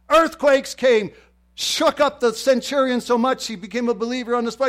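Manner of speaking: loud, high preacher's shout; fired-up preaching. Real, not acted. Preacher telling of the earthquakes, fired-up shout. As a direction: keep shouting the story to the crowd.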